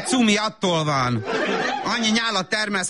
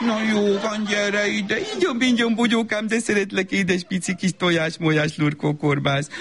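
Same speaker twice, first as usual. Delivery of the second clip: put-on soothing baby talk; 3 semitones higher than usual. Mother makes up with cooing.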